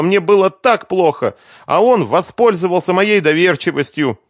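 put-on high, tearful plea of a young woman; pleading woman. Svetlana pleading with her lover Renat, high and tearful. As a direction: beg him to believe you.

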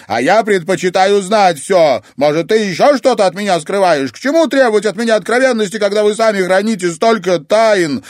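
accusing granddaughter; indignant. Acted. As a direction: demand the whole truth. Luiza demands honesty.

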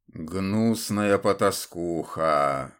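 low, slow contemptuous curse; venomous hiss. Acted. Templar curses Ludmila low and slow in contempt. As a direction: spit the insult out slowly from the grave. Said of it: "процедил он".

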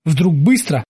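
ordinary delivery

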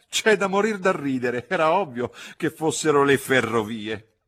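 put-on high, loud laughing old lady voice; unable to stop laughing. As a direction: shriek it through helpless giggles. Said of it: "Non riuscì a frenare l'ilarità". (ridendo a crepapelle, acuta e forte)

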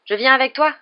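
high, loud, eager offer; delighted. A narrator's reading. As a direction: jump in with delight. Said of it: "dit Neville, ravi".

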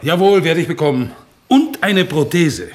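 defiant insistence. Acted. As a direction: insist against the doubter. Insists against a doubter. (trotzig und lautstark beharrend)

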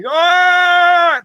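very high, loud shriek; terrified scream. Acted. Scared pig shrieks while fleeing the shark, very high and loud. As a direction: shriek as you run for your life.

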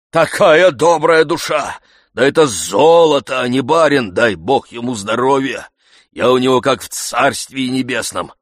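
loud, high boastful praise; proud old servant. Acted. Zakhar boasting to the coachman, loud and proud. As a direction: brag about the good master.

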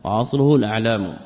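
الأعلام said "al-a'lam", hamza with short a; fatha on the hamza. Shown as a demonstration. Teacher repeating the corrected reading, الأعلام with fatha. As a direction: open أعلام with an a. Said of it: "به بالفتح".

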